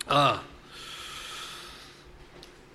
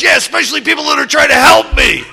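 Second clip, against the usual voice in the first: high, loud, breath-heavy spooky voice; spooky growl; 6 semitones higher, 8 dB louder than usual. Retold or imitated. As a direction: hiss it out like a haunted man. Andy in back seat.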